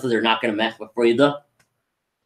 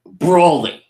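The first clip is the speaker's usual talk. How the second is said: mock yell of a name, higher and louder; imitated shout for help; retold scream; 5 semitones higher, 5 dB louder than usual. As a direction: call out in a half-raised mock scream. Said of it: "He just screamed".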